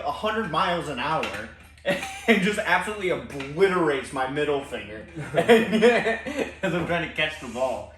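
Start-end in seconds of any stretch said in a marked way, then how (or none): 1.8-7.9 laughing. Real, not acted. Laughing at getting hit.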